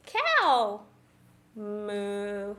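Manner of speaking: cow called out loud, then a long moo; lightly voiced storybook cow; playful cow. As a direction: draw out the moo for a child. Voicing the cow in picture book.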